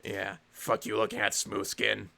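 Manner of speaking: raspy Fallout ghoul growl. Acted. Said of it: "doing ghoul voice is kinda easy".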